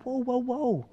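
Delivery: lightly acted "slow down" voice; retold calming interruption. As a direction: rein in an overeager friend. Jesus calms eager Peter down.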